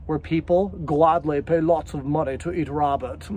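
vague put-on upper-crust accent; made-up accent. Describing luxury diners, in an improvised snooty accent. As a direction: put on a muddled fancy accent. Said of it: "Sorry, I don't know what that accent was".

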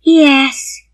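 put-on high, downcast child's voice; sad little girl. A narrator's reading. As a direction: admit it sadly as a little girl. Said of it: "said the little girl sadly".

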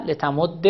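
لتمد with a doubled dal ending in short e; assimilated, kasra ending. Shown as a demonstration. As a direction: merge the dals of لتمد and close on -dde. (لتمد با دال مشدد و کسره)

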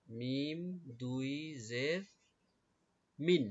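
letter-by-letter spelling of মিন; spelling-out recitation. Shown as a demonstration. Teacher showing pupils two zer, measured spelling recitation. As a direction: stretch মিম and জের, then a separate, firm মিন. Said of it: "উচ্চারণ কিভাবে হবে".

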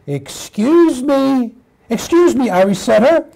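daydream, then call out as a puppy; eager little puppy. Acted. Puppy approaches Irish setter by the snowman, eager puppy voice.

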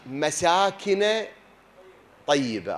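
slow, drawn-out Quranic recital of the phrase مساكن; verse recital. Shown as a demonstration. Preacher quoting the verse about heavenly dwellings, drawn-out recital. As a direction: draw out مساكن slowly like reciting scripture.

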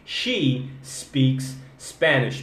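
She speaks Spanish. slowly, no added E, each S clean; correct she speaks. Shown as a demonstration. Teacher giving students the corrected sentence slowly. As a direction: start She and speaks straight on the consonant. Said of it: "Só tem S".

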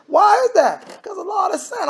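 preacher whipping up the congregation; preaching shout. Real, not acted. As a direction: lift it to a shout.

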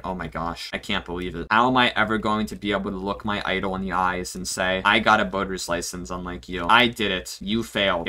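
soft, low, mock-devastated; mock despair. To his SpongeBob idol, softly mock-grieving. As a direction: play it as a hammed-up tragedy.

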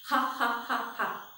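mock "ha ha ha ha"; put-on, evenly spaced laugh; demonstrated laugh. Shown as a demonstration. Teacher showing children how to laugh, pretend laughing. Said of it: "How do you laugh?".

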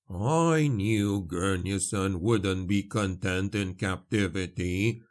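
measured, unhurried character voice; solemn explanation, lightly in character; lightly voiced priest. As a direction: weigh each phrase gravely.

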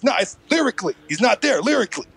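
lightly imitated rapper, dismissive; a hint of rapper impression; mock rapper verdict. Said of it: "the only impression I can fucking do".

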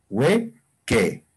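"hueque" in two separated syllables, we-ke; demonstrated pronunciation. Shown as a demonstration. Teacher repeating the word for learners, carefully sounding out "hueque". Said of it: "esta la pronunciación? Sería hueque".

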